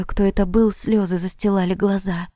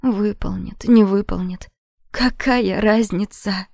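bitter sigh; slower than usual. Acted. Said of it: "горько выдыхая".

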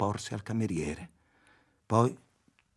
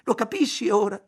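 high, loud and tearful; sobbing; 12 semitones higher, 8 dB louder than usual. A narrator's reading. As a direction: cry the words out through sobs. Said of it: "singhiozzando e continuando a ripetere".

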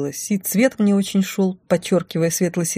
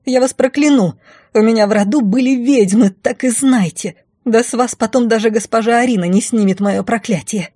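furious threat; 5 semitones higher, 4 dB louder than usual. Acted. Blonde threatens to curse.

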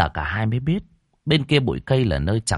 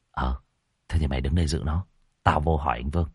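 low thug voice; 6 semitones lower, 5 dB quieter, faster than usual. A narrator's reading. Other thug answers, low.

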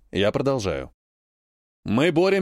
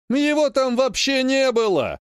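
higher, slow indignant exclamation; exclaiming; 8 semitones higher than usual. Acted. Guardsman exclaims to his comrades, higher and emphatic. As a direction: blurt it out in disbelief. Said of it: "воскликнул мужчина".

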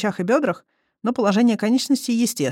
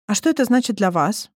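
intrigued; 4 semitones higher than usual. Acted. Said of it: "заинтересовалась Алиса".

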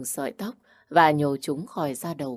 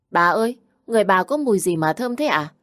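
put-on child voice; 4 semitones higher, 5 dB louder than usual. Grandchild Vũ asks grandma.

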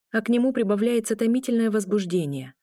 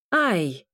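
mild cry. A narrator's reading. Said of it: "вскрикнул Титан".

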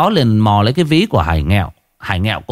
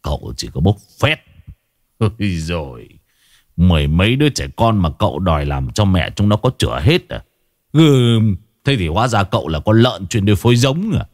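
mocking old man; 3 semitones lower than usual. Bald old man mocks from fence.

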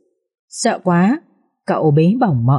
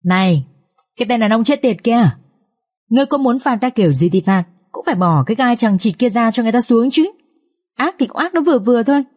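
higher-pitched, indignant telling-off from up a tree; mild angry scolding; 4 semitones higher than usual. Acted. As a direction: scold him in pitched-up annoyance, not shouting. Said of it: "điên thò mò xuống và mắng". (mợ ba bực bội mắng cậu ba, giọng cao nhưng không to)

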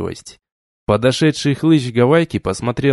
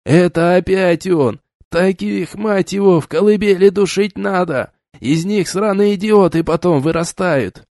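put-on Irish accent; 7 semitones higher than usual. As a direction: rage in a heavy Irish brogue. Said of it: "с жутким ирландским акцентом".

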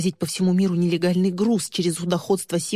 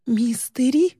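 startled question; 9 semitones higher, slower than usual. Acted. Lee realizing, questioning.

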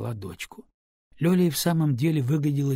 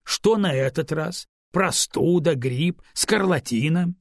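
a touch of indignant scolding, slowing on the list of illnesses; mildly indignant, building reproach; indignant boss; 3 semitones higher, 4 dB louder than usual. Acted. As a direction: boss exasperated at yet another sick leave. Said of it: "возмутился начальник".

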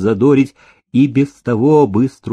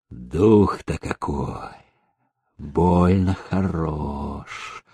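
much softer and very slow, sighing; blissful whisper; 7 semitones lower, 8 dB quieter, much slower than usual. Acted. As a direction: sigh it out in sheer pleasure. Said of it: "вздыхал и шептал блаженно".

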